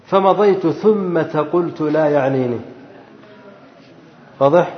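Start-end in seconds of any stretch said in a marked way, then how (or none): 0.1-2.6 slow, measured recitation; measured teacherly verse reading. Shown as a demonstration. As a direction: recite the verse slowly, drawing out long vowels.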